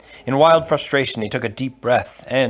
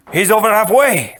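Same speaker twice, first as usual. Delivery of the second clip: higher, louder urgent warning; alarmed Spaniard; 10 semitones higher, 6 dB louder than usual. Acted. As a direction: raise the alarm. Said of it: "the Spaniard said".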